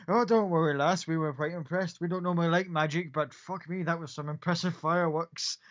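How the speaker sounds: a big friendly soldier slapping a shoulder; hearty Gith soldier. Acted.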